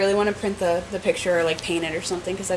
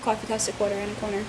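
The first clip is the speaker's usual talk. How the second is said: softer New York accent demo; 6 dB quieter than usual. Shown as a demonstration. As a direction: say it like a New Yorker. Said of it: "can tell if someone's from New York".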